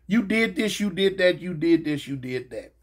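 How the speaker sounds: singsong list sinking low and soft; droning accusations. Retold or imitated. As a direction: drone off the charges, fading down. Mimics guards listing accusations.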